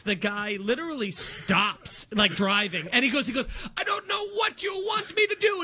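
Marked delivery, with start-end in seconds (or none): 3.8-5.6 high-pitched mock panic; nervous driver. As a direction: plead helplessly, imitating a flustered driver. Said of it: "getting so nervous".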